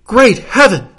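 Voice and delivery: hammed-up distressed countess; mock scream. A narrator's reading. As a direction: cry out in mild theatrical horror. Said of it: "interrupted by the scream of a woman".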